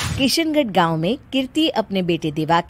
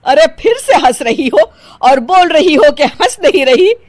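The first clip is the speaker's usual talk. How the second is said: louder, exasperated scolding; angry; 4 semitones higher, 6 dB louder than usual. Acted. Mother-in-law exasperated at denying bride. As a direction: scold her, fed up.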